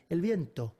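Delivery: "viento" with a crisp, clean T. Shown as a demonstration. Teacher corrects students' Spanish, crisp T in viento. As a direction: say "viento" with no sibilance on the T. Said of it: "It's crisp".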